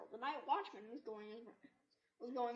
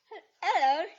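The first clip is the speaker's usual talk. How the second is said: startled hello; 6 semitones higher, 17 dB louder than usual. Acted. Corduroy startled by watchman.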